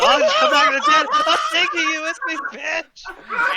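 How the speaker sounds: vengeful ghost threat. Acted. Threatens to haunt friends after death.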